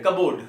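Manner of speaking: कबोर्ड with a full "board" ending; common mispronunciation. Shown as a demonstration. Teacher imitating some learners, कबोर्ड ending in "board". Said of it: "कुछ लोग ये भी बोलते हैं".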